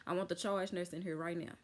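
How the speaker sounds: says charge nurse this time, firm; corrected title. Retold or imitated. Patient correcting herself to demand the charge nurse, firm. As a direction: fix the slip: I want the charge nurse in here right now. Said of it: "uh, the charge nurse".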